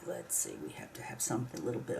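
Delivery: fast whispered muttering to herself; thinking aloud in a quick whisper; muttered whisper. Real, not acted. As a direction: mumble it under your breath, quickly. Muttering to herself while gluing.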